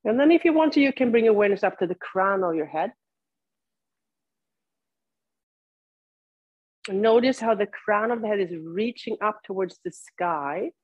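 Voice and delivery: unhurried cues with long silences between; guided yoga practice. Real, not acted. Teacher leads seated students into body awareness, guided meditation delivery. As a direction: guide them through it, leaving room to breathe.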